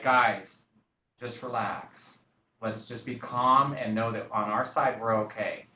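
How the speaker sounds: measured, soothing client talk; calm reassurance. Retold or imitated. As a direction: talk them down calmly, taking your time. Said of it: "the inflection of your voice".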